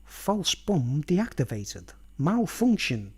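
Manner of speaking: slow machine announcement; robot voice. Retold or imitated. Headphone signal telling the banana it failed, slow robotic. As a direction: deliver like a cold computer. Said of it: "signal comes up in his headphones".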